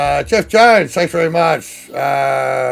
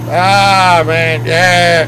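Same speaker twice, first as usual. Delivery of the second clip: real laugh breaking through the name; 4 semitones higher, 4 dB louder, much slower than usual. Real, not acted. Streamer reading a viewer's name, laughing out loud. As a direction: crack up mid-word and keep laughing.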